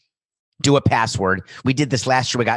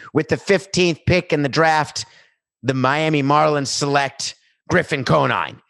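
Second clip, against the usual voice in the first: draft announcer; 3 semitones higher, 4 dB louder than usual. Pretend.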